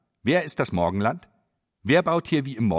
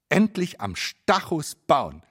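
excited; 5 semitones higher, slower than usual. Acted.

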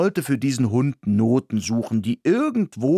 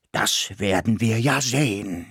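growled. Acted. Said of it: "knurrte es mir".

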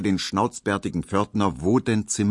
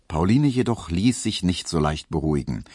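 ordinary delivery, nothing marked

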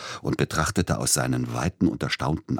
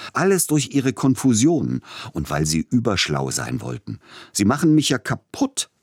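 rising into a high, loud furious yell; furious shout; 7 semitones higher, 4 dB louder than usual. A narrator's reading. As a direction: shout him down in a rage. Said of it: "schrie Peter Iljitsch ihn an".

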